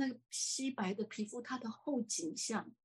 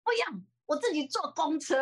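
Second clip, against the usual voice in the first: stubborn refusal; 7 semitones higher, 4 dB louder than usual. Retold or imitated. Mother refusing the ride.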